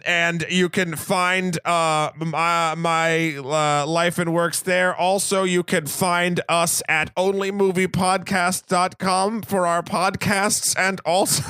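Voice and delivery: slow, lightly voiced flat impression of his friend; monotone Shahir. Host voicing his sick co-host's plug, mild slow monotone. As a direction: drag it out like a mild monotone mimic. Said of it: "I just made you super monotone".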